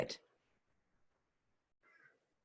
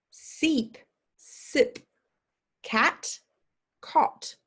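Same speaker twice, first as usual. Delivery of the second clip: quicker drill; much slower than usual. Shown as a demonstration. Teacher speeding through the minimal pairs. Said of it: "more quickly".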